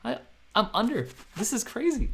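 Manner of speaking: alarmed as the price drops; panicking. Retold or imitated. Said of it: "and I was panicking".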